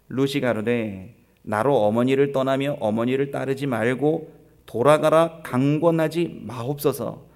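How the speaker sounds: measured, formal Bible recitation; scripture reading. Acted. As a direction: read it out solemnly to the congregation. 성경 본문을 낭독함. (또박또박 엄숙한 성경 낭독)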